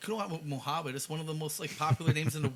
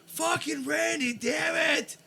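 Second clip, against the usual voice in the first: frustrated yell; 9 semitones higher than usual. Retold or imitated. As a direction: yell it like you're at your wits' end. Imagined frustrated outburst at Randy.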